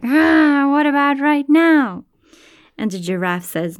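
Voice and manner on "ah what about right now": eager jackal. Acted. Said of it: "jackal is like".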